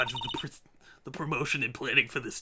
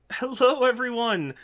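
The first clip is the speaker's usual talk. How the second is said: louder, higher cheerful hello; raid greeting; 8 semitones higher, 6 dB louder than usual. Real, not acted. Streamer welcoming raiders, cheerful loud hello.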